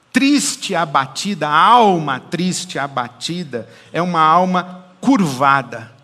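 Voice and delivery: loud, emphatic preaching voice; full-force preaching. Acted. Pastor preaching to the congregation about the downcast soul, loud and emphatic. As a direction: thunder each phrase at the congregation.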